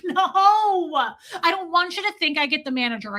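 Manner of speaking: high wailed mock meltdown; freaking out. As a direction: wail a desperate, hammed-up protest. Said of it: "started, like, freaking out".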